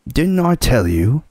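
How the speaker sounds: high, triumphant and eager; gleeful I-told-you-so; excited. Acted. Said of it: "almost dancing with delight".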